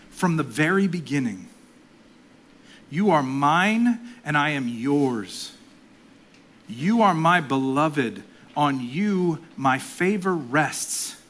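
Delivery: prayerful read-aloud; devotional reading. Acted. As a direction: read it as God speaking lovingly. Reads quote as Father's voice.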